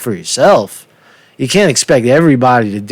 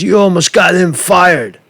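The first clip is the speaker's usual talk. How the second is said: boss's accusation; 4 semitones higher than usual. Retold or imitated.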